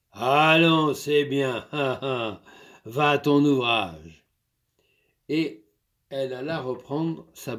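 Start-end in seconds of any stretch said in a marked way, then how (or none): 0.1-4.3 lightly voiced farmer, firm and a bit louder; stern master. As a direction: lay down the law to the servant. Master settles things.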